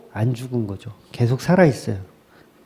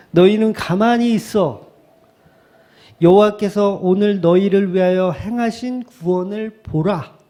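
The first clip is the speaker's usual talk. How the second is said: mildly declaimed scripture, raised pitch; attempted oratory; 4 semitones higher than usual. Shown as a demonstration. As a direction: read it out like a half-hearted orator. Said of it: "운변하듯이 이렇게 해야 되는데".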